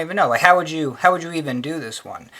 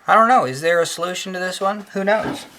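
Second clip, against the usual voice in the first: sudden high exasperated outburst; freaking out; 5 semitones higher than usual. Real, not acted. Teacher stuck on a tangent, flustered outburst. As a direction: blurt it out, flustered by the puzzle. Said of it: "I don't know why I'm freaking out".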